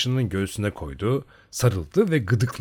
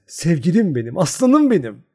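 high, thin and giggly; a thin-voiced lover's tease, laughing; 7 semitones higher, 6 dB louder than usual. A narrator's reading. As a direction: coo it high through ringing laughter. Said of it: "Çın çın kahkahalar atarak ince bir sesle".

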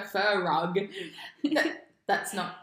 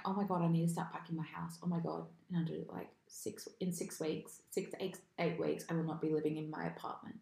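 panicked; 3 semitones lower, 7 dB quieter, faster than usual. Retold or imitated. Panicked bedtime thought, retold.

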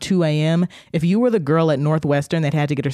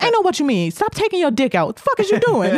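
tough security guard; 14 semitones higher than usual. Retold or imitated. Security guard scolding man.

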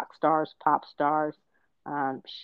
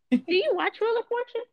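high host voice, pitched up; game show voice. Acted. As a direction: ask it like a quiz host. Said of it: "I had perfect game show voice".

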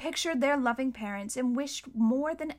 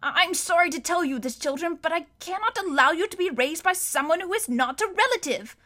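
higher, stiff official regret; apologetic banker; 6 semitones higher than usual. A narrator's reading. Mister Poe telling the children they must leave. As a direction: break bad news politely but firmly.

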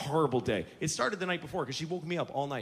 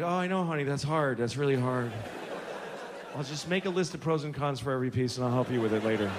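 unengaged soothing; 5 semitones lower than usual. Retold or imitated. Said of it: "I'm still not engaging".

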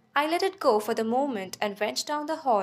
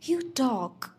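matter-of-fact. A narrator's reading. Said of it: "He spoke matter-of-factly".

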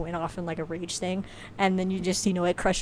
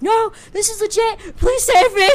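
high, loud cry for help; hammed-up panicked begging, building louder; mock desperate plea; 14 semitones higher, 9 dB louder than usual. Vanitas as hostage begging rescue, mock desperate.

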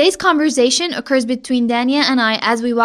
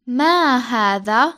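slow; slower than usual. Shown as a demonstration. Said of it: "One more time, slowly".

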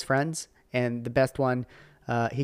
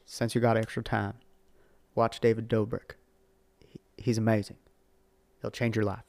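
a light imitation of a president addressing the public; Obama. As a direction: do a mild, understated statesman impression. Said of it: "well, that's my Obama impression".

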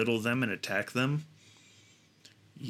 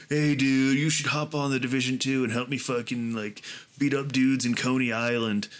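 calling a buddy; 4 dB louder than usual. Retold or imitated. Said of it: "Call your buddy".

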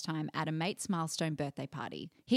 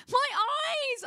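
very high shriek of pain; banshee shriek; 3 dB louder than usual. Retold or imitated. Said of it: "I shrieked like a bloody banshee".

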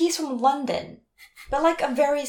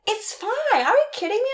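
mock scoffing; 10 semitones higher, 4 dB louder, faster than usual. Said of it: "And he's like".

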